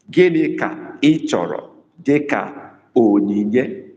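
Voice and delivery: Gịnị ka ị chọrọ dịka onyinye said slowly, word by word; slow, careful dictation. Shown as a demonstration. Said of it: "I have to ask you a question".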